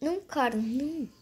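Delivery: frightened, gasping and crying out; panicked gasps and whimpers; scared horror game streamer. Real, not acted. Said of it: "eu tô com muito medo".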